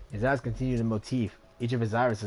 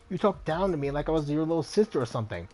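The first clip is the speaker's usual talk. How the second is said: raised voice, indignant comeback; raucous retort; 3 semitones higher than usual. Acted. Isabel cuts in on Rhombus over old insults, raucous. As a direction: argue back with growing heat. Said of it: "her normally small voice growing raucous".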